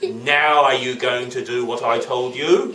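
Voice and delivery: slow, mildly menacing judge; a hint of gloating threat; demanding judge. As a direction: draw out the question into a demand. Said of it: "put them on a plate and said".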